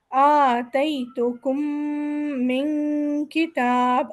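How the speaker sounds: آتَيْتُكُمْ slow, mim of مِنْ blended; slow Quranic reading, nasals held; recited with ghunna. Shown as a demonstration. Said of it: "نون پہ بھی اور میم پہ بھی ہم نے".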